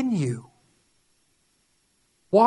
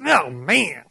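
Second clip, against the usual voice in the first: dismayed groan; 5 semitones lower than usual. Acted. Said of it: "our knee-jerk reaction is".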